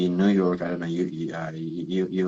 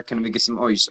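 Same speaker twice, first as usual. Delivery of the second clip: lightly imitated Australian coach saying "ice" as "oice"; "ice" rounded into "oice", Aussie style; Australian accent. Coach asks interpreter for ice, imitated Australian accent. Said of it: "one of their coaches said".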